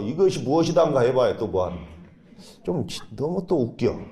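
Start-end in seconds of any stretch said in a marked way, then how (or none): 0.0-1.0 lilting Jeolla question, a little higher; 전라도 사투리로; Jeolla dialect. Shown as a demonstration. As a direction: play it in a Jeolla accent for laughs. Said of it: "전라도 말로".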